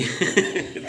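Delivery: breathy, high giggle; soft wheezy laugh; chuckle. Real, not acted. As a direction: chuckle at your own joke. Joking about wife running away.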